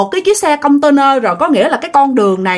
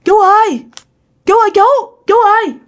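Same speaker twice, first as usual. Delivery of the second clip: frightened calling; 9 semitones higher than usual. Retold or imitated. Scared rider calls for the man who has vanished, alarmed. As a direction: call out repeatedly, pitch jumping up in alarm. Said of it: "Bạn sợ".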